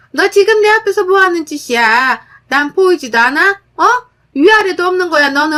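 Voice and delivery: high, loud rebuke; mother-in-law yelling at daughter-in-law about respect; angry scolding. Acted. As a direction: tear into her for disrespect.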